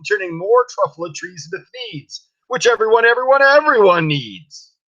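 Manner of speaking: high, loud, triumphant shout; full yell. Acted. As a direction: hammer the last words out loud and high. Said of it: "I yelled at the Lorax".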